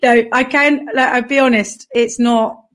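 hoarse just-woken-up voice; croaky morning rasp. Real, not acted. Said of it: "I've got, like, a croaky voice".

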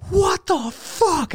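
very slow, high drawn-out what the fuck; mock exasperated outburst; retold outrage. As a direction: stretch it out high in disbelief. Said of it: "And I just go crazy".

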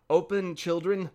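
wolf posing as mother, calling out; wolf crying out. Acted. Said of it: "cried he".

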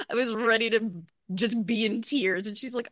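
ordinary talk

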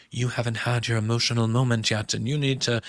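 light mock British accent for Lisa; a hint of a posh British accent. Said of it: "you like my British accent".

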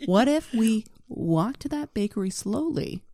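lightly hammed idle pitch; mock lazy counterproposal. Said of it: "And I would just be like".

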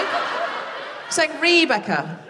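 Rebecca slowly with a long ee first syllable, ree-BECK-uh; slow careful demo. Shown as a demonstration. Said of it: "how do I say it?".

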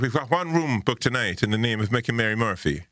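put-on Irish landlady accent. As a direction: play the Irish landlady checking a booking. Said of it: "she was like".

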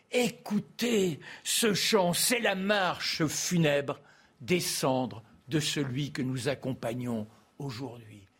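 slow, solemn funeral oration; Malraux's vibrant oratory. Retold or imitated. Host quoting Malraux addressing the youth, slow solemn declamation. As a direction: intone it like a grave state eulogy. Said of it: "avec sa voix vibrante".

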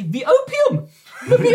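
shrill, loud calling of the word; loud demand. Acted. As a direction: bellow it to scare the shopkeeper. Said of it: "your volume that intimidates him".

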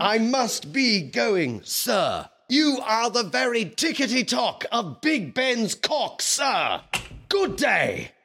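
high, loud, fed-up exclamation; frantic high shouted farewell; exasperated shout. Acted.

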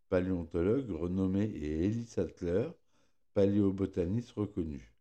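lisping through a pierced tongue; tongue piercing. Real, not acted. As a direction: speaks carefully around a sore tongue. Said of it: "je me suis fait percer la langue hier".

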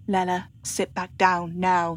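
firm. Acted. Mother ordering her daughter to sit, firm. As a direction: set the daughter straight, no arguing. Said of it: "she says firmly".

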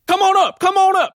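high, bright beckoning call; mayor calling up. Acted. Mayor beckoning Albert up to the stage, high and eager. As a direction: wave them up with a sing-song welcome.

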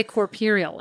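"corporeal" said wrongly as "cor-peer-ial"; mispronounced word. Real, not acted. Co-host fumbling a fancy word, "corporeal" mispronounced as "cor-peer-ial". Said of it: "Can you not take a feckin' mispronunciation".

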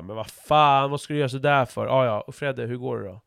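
mild irritated huff, then back to small talk; grumble, then shrug it off; annoyed then chatty. Retold or imitated. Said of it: "eller så är det bara så här". (lätt irriterat, sedan pratigt igen)

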